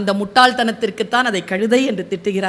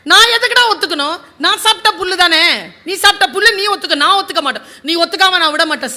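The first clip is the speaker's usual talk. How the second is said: heated quarrel; 5 semitones higher, faster than usual. Acted. Tiger and donkey shout at each other over the colour, heated. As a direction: fire back, refusing to give in.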